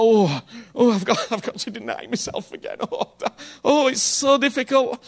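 whiny put-on martyr voice, laughing through it; mock self-pitying martyr. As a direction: ham up the long-suffering Christian. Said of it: "I call those martyrs for Jesus".

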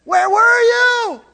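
high, slow, loud cry; pleading cry. Acted. Believer crying out to God asking where he was.

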